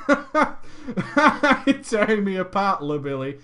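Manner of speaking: hammed-up melodrama. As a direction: play a wounded drama hero for laughs.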